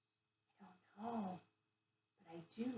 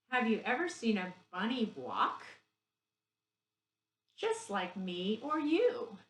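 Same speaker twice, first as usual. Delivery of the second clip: put-on rhyme read to children; 4 dB louder, slower than usual. Reads the bunny rhyme.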